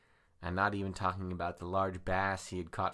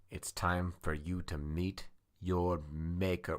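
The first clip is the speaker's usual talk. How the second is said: mock menacing; slower than usual. The speaker threatening a door.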